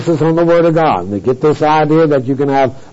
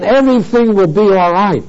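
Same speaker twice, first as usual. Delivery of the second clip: imitating a breezy promise, slightly raised pitch; easy assurance; 3 semitones higher than usual. Organizations promising new believers all is fine, mock assurance. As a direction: voice their confident claim lightly.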